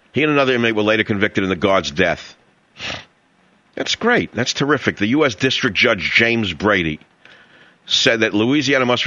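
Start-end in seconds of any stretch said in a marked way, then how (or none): 3.7-5.0 sarcastic. Real, not acted. Sarcasm about guard's killer.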